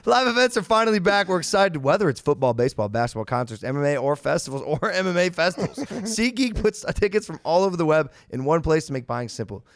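upbeat sponsor read. Acted. Host reading a SeatGeek sponsor spot, upbeat ad read. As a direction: sell it like a host ad.

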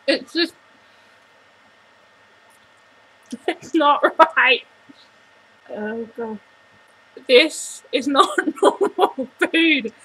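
talking while eating; mouth full, chewing. Real, not acted. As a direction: hand covering mouth. Seen 1: eats orange snack, hand at mouth, chewing between words.

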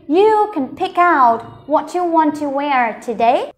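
slow but connected reading, words flowing together; whole-sentence model. Shown as a demonstration. Teacher reading the whole sentence with learners, slow and connected. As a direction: read it through in one measured flow. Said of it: "Mình cùng đọc cả câu nhá".

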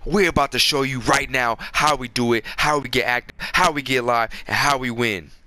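fired-up, driving hype chant; worked up. Real, not acted. Gamer promising viewers a comeback, worked-up hype. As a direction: punch each phrase like a pep talk. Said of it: "I just got a little worked up".

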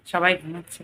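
soft low-volume chat at the table; speaking softly. Real, not acted. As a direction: keep it down, everyone's sleeping. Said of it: "ওর জন্য আস্তে আস্তে কথা বলছি".

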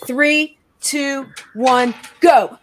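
rising countdown, shout the go; excited countdown. Acted. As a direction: count them in like a coach. Fitness countdown on air.

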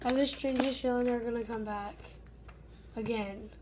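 hushed, urgent calls to the pets; whispering so nobody hears. Real, not acted. Kid hiding, whispering for backup, hushed and urgent.

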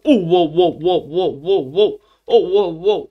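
loud, thrilled wow wow; excited wows. Real, not acted. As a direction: cheer at finding the sheep. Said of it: "No sé por qué me emociono tanto". (gritos de emoción por las ovejas)

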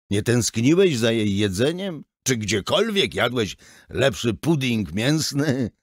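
scolding. Acted. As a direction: scold the son for snubbing mum's food. Father scolding son at dinner. (ojciec z wyrzutem do syna)

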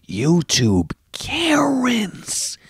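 high, slow breathy mockery; mock Karen whisper. Mocking his viewers as whiny Karens. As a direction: sneer it like a Karen.

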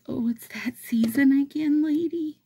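high, breathy little bird; chirpy bird voice. Pretend. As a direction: whisper it high like an excited songbird. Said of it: "They're like".

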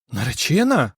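ordinary delivery

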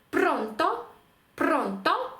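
«пронто» with the beat on PRON; penultimate stress. Shown as a demonstration. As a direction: stress the first syllable of «пронто». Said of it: "ставимо наголос на попередній склад".

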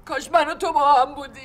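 half laughing, half crying; tearful. Acted. Distraught mother lamenting her missing son, tearful laugh-cry. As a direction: laugh through tears in despair.

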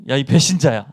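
half-laughing scold at a traitor; imagined rebuke of a betrayer; mock angry rebuke. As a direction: chew him out, half in jest. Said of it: "이러지 않았을까요?".

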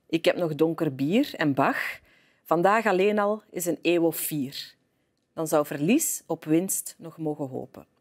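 impassioned recital with measured pauses between phrases; passionate poem reading. Real, not acted. Guest reads a chosen poem to the host, with passion. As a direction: recite the poem with passion, swelling then sinking away. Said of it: "met veel passie voorgelezen".

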